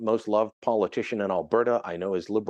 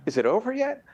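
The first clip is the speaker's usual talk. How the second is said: put-on higher, weary old lady; 11 semitones higher than usual. Commentator voicing a weary very old lady: higher pitch. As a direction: ask it like a tired centenarian. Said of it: "my grandmother who lived well past a hundred".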